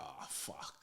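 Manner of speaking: low, hushed sinking dread; quiet, sinking "oh no" aside; dismayed reaction. Retold or imitated. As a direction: mutter it low under your breath. Dismayed reaction in retold story.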